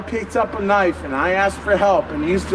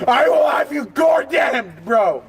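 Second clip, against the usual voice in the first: yelling in real fury at officers; furious, raised voice; angry shout; 4 semitones higher than usual. Real, not acted. Drunk man resisting arrest.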